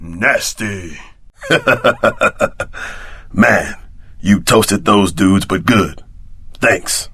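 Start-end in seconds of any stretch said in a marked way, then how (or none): 1.4-3.3 laugh. Acted. Laughing over body parts.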